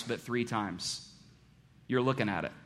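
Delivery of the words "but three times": "three times" dropped soft and slow; a soft, slow reveal of "three times"; quiet emphasis. Shown as a demonstration. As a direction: hush it down on "three". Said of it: "not twice".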